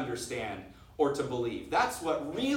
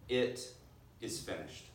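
hushed; 3 semitones lower, 5 dB quieter than usual. Acted. Preacher to his congregation, a soft reverent hush. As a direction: let the words die away into near silence. Quoting Jesus' last words again.

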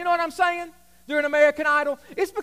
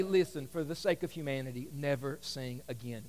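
mock judge verdict; 11 semitones lower, 10 dB quieter than usual. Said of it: "the judges say".

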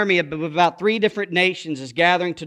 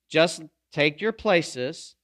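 slow call and response; 4 semitones lower, 3 dB quieter, much slower than usual. Shown as a demonstration. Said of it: "Everybody say".

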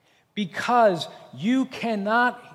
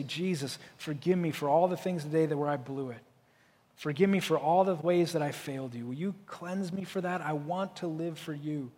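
quiet prayer; 3 semitones lower, 6 dB quieter than usual. Pretend. Quoted bedtime prayer of confession.

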